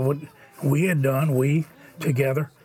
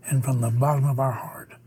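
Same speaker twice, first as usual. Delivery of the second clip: heartfelt, almost whispered gratitude; whispered thanks. Real, not acted. Sincere closing thanks to donors.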